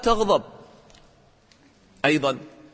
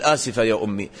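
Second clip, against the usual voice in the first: a daughter's humble sorry to her mother; humble apology; 7 semitones lower than usual. Shown as a demonstration. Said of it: "البنت هكذا تنزل رأسها".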